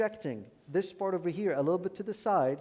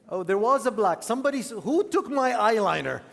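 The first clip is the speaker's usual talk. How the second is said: loud, high call across the room; yelling across the room; 5 semitones higher, 9 dB louder than usual. Real, not acted. Calls out for missing eyeliner.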